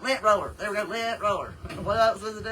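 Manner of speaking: loud, high burst as the word comes back; high, loud, laughing at the lapse; triumphant recall. Real, not acted. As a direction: exclaim it, delighted to finally remember. Suddenly finds the forgotten word.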